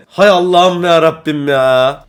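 loud, slow, dragged-out groan of frustration; exasperated outburst. Real, not acted. Gamer fuming to viewers over the lost final, exasperated shout. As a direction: cry out to the heavens, fed up.

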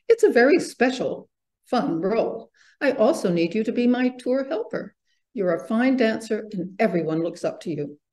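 animated reading of a reassuring teacher; encouraging story narration. A narrator's reading. Teacher consoles Angelina over her role, encouraging storybook voice. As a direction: lift the key words to encourage a pupil.

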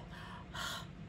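breathy, bashful sigh; soft sigh. A narrator's reading. Toucan blushes at his friends' love, soft sigh. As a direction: let out a quiet touched breath.

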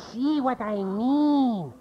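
high yappy little dog voice; chihuahua voice. Shown as a demonstration. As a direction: yip it like a tiny chihuahua. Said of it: "do a little Mexican Chihuahua".

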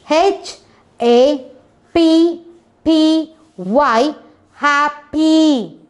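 letters sung out high and bright. Shown as a demonstration. Teacher spelling happy to children, letter by letter, high and lively. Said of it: "teacher spelling for children".

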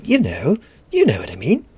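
mock British snob accent; imitating the British. Lecturer mocking the proper way of doing things, imitated British accent. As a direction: put on a snobbish British voice. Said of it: "I love to imitate the British".

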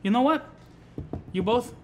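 loud, scolding manager; angry boss. Acted. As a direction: bark orders at the staff.

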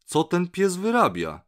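loud, high-pitched astonished question; okrzyk zdumienia. A narrator's reading. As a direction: exclaim it like a baffled doctor. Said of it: "zakrzyknął doktor". (głośne, wysokie pytanie pełne zdumienia)

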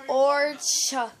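shorts said backwards as orcha; backwards speech. Shown as a demonstration. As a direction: say the sounds in reverse order. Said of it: "Say it backwards".

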